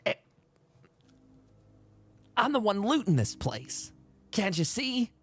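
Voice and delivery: a spooked looter caught off guard; startled raider. Acted.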